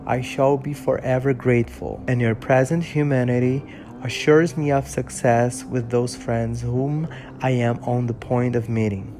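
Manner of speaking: measured English audiobook reading, steady and clear; story narration. Acted. Reading Frankenstein to his followers, calm storytelling narration. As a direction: read the novel aloud like an audiobook.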